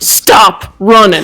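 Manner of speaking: forced out through a clenched jaw and gritted teeth. Player speaking in character on their combat turn; through gritted teeth. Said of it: "I say through gritted teeth".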